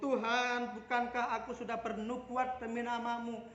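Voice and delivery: mildly voiced plea of someone listing deeds; lightly acted protest to God; protesting claimant. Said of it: "banyak orang berseru-seru".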